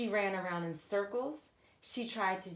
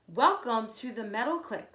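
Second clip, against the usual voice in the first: excited scream; 3 semitones higher, 7 dB louder than usual. Acted. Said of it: "screamed Kate".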